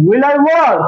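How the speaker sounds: will I work? said slowly, each word apart; slow teacher's model of "will I work?"; slow spelled-out model. Shown as a demonstration. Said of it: "auxiliary ভার্বটা আগে দিয়ে নিয়ে আসি".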